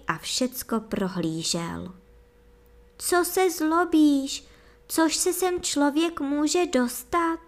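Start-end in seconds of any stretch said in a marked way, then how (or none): 3.0-7.4 coaxing. A narrator's reading. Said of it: "domlouvala mu princezna".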